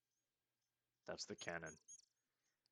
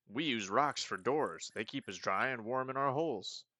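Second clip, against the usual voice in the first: hippie creature; 4 semitones higher, 3 dB louder than usual. Acted. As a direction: stretch it out like nothing matters. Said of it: "Is that why he talks like that?".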